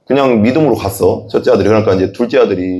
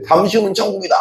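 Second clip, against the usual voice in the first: raised cry; 9 semitones higher, faster than usual. Retold or imitated. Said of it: "이렇게 했대".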